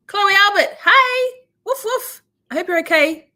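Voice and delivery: squeaky doggy greeting; cutesy pet voice. Real, not acted. Greeting the dog on stream.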